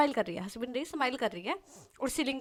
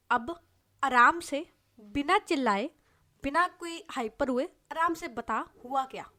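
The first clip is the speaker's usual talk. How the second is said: slow calming; slower than usual. Acted. Sehar calms her angry friend.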